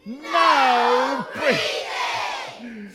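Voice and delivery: extremely slow, loud, stretched command; hugely drawn-out schoolteacher ban; strict teacher. Acted. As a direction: hold each word long and stern. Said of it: "Miss says".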